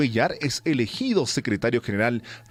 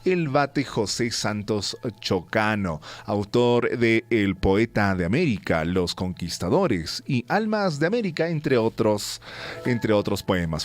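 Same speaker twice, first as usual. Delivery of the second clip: announcer reading history notes; radio news read. Acted. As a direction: read the day's history on air. Reads the historical segment.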